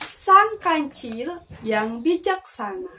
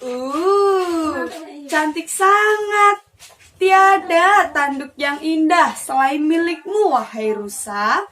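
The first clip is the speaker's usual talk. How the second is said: butter him up, louder and slower on cantik; flattering praise; 2 semitones higher, 3 dB louder than usual. Acted. Pigeon flattering the proud deer, gushing praise. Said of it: "dengan penuh pujian".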